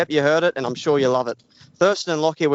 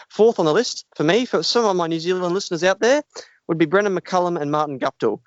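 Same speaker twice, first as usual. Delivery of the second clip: a mock Kiwi accent, not overdone; hint of a New Zealand accent while listing sports duos. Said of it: "my impression of a Kiwi accent".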